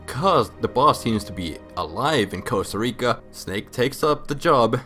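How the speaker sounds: ordinary talk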